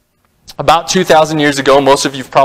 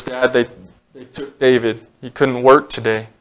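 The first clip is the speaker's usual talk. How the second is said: put-on hushed, tearful boy breaking the news; a quiet son telling his father through tears; 2 semitones lower, 5 dB quieter than usual. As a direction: say it softly, barely holding back tears. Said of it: "in tears".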